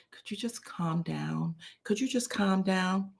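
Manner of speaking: hushed, half-whispered plea; under her breath. Retold or imitated. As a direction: imitate a wife quietly hushing her husband. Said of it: "under her breath".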